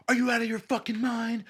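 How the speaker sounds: high, mock-outraged scolding; outraged stranger. Stranger pinning him down, high mock outrage. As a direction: pitch up as a scandalised stranger.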